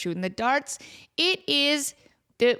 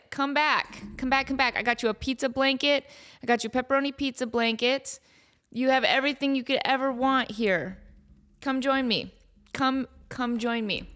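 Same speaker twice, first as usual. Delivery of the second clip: coaxing the cat. Real, not acted. Coaxing cat Kevin back.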